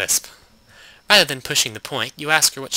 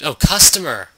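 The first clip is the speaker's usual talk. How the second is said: proper shout of customer; louder shout; 2 semitones higher, 6 dB louder than usual. Shown as a demonstration. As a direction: call it out louder. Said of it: "you could at least, like".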